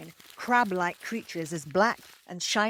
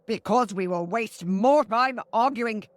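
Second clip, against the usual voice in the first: mild snap; 3 semitones higher, 5 dB louder than usual. Acted. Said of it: "snapped the third".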